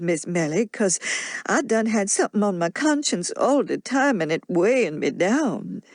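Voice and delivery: put-on an old nurse pouring out her worry in broad Southern dialect; a lightly voiced Mammy, troubled and earnest; Mammy's dialect voice. Mammy tells her story in dialect.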